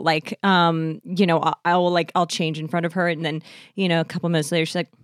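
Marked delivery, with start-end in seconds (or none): none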